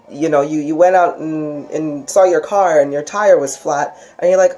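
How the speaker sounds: ordinary talk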